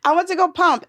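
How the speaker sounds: high, amused, laughing through it. Real, not acted. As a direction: giggle at her own obedience. Laughing at herself.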